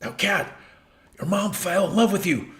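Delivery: high, building to a loud cry; frantic Doc parody. Acted. Inventor warns cat it will never exist, high frantic shout.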